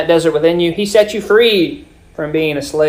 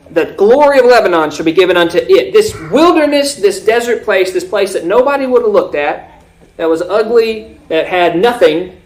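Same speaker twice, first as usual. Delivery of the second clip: raised, punched key words in scripture; emphatic preaching; 3 semitones higher, 4 dB louder than usual. Acted. Preacher expounding the glory given to the wilderness, emphatic preaching.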